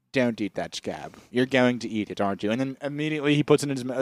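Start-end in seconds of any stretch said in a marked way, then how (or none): 0.1-2.5 lightly voiced Doctor Evil. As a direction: warn him off in a low voice. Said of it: "Doctor Evil goes".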